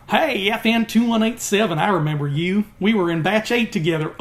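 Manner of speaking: light imitation of a Southern-accented trooper greeting an old friend. Vlogger imitating Tom Hardy's trooper greeting Finn, in a light Southern accent. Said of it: "twangy Southern accent as a stormtrooper".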